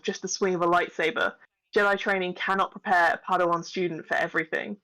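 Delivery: even, measured narrator read; lightly formal trailer-style narration; scripted story narration. A narrator's reading. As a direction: read it like a saga's prologue. Reads the scripted episode introduction.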